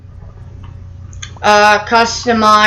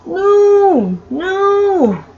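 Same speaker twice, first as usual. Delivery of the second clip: shouting no; 9 semitones higher, much slower than usual. Real, not acted. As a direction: yell it in panic. Player's cell about to be eaten.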